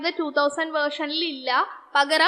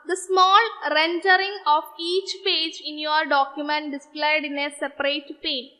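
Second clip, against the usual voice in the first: drawn-out, very slow question read; slow quiz reading; much slower than usual. Acted. Teacher reading a quiz question to students, very slow and measured. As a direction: read the exam question word by word, very slowly.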